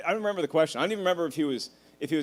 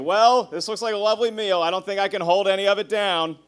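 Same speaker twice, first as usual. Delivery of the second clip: grandpa's morbid toast; 4 semitones higher, 4 dB louder than usual. Retold or imitated. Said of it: "It's like".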